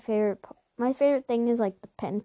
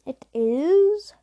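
dramatic whispered reveal; 3 semitones higher, 3 dB louder than usual. Acted. Dramatic reveal of next game.

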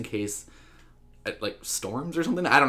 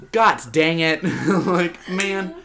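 laughing quote; 5 semitones higher, 7 dB louder, much slower than usual. Retold or imitated. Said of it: "mock Eisner lament, laughing".

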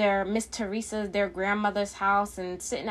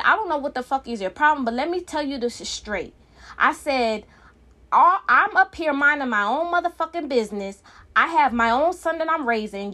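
raised, higher, heated voice replaying the fight; retold angry rant; 4 semitones higher than usual. Retelling telling off Dominique for lying, heated raised voice.

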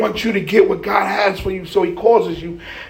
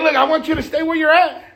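devil's line pitched up high; 5 semitones higher, faster than usual. Acted. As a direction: insist as the devil, higher and livelier. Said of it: "He's like".

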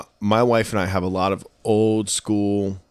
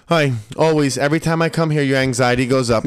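mock accusing mom; 4 semitones higher, 3 dB louder than usual. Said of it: "She goes".

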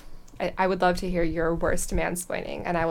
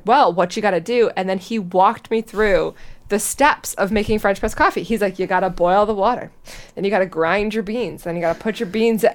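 a hint of a condescending man, louder and explaining step by step; mock lecturing guy; 5 dB louder than usual. Imitating the date who lectures her on French press, mildly mock-patronizing. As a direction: lightly play the know-it-all date.

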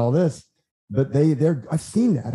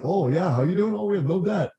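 mock fake-cheerful founder; 6 semitones higher than usual. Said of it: "they always act like".

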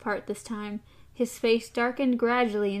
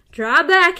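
panted; 6 semitones higher, 10 dB louder than usual. A narrator's reading. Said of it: "he panted".

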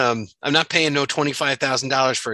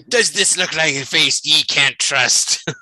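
pirate voice; 3 dB louder, slower than usual. Pretend. Pirate joke continues.

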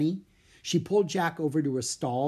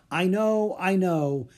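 loud cut-in, starting high and dropping; impatient interruption; 5 semitones higher, 4 dB louder, slower than usual. A narrator's reading. Bird seller interrupting Leonardo's familiar story, impatient. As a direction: cut in as if heard it before. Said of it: "interrupted Marco".

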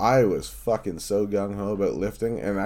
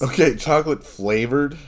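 incredulous; 8 semitones higher, 9 dB louder than usual. Real, not acted. Disbelief at fart news.

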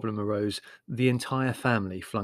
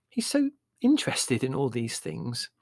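mild motherly soothing; pacifying; 2 semitones higher than usual. Acted. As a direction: gently plead his case. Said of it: "said Mother pacifically".

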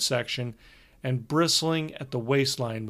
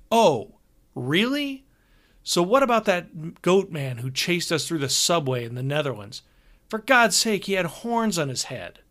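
exasperated; 4 semitones higher, 3 dB louder than usual. Acted. Brian challenges the manager angrily.

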